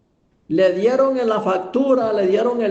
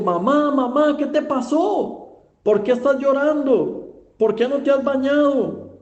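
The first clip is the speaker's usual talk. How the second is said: higher-pitched, worried questioning; urgent pleading with a touch of alarm; alarmed son; 7 semitones higher than usual. Acted. Son finds mother crying in the armchair, alarmed.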